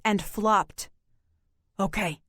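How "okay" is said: croaked. A narrator's reading. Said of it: "he croaked".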